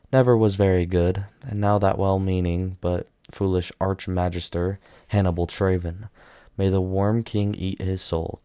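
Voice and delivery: ordinary delivery, nothing marked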